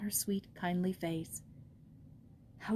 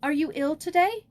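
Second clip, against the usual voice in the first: hurried stammer; 8 semitones higher, 9 dB louder than usual. Acted. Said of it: "she hurriedly stammered out".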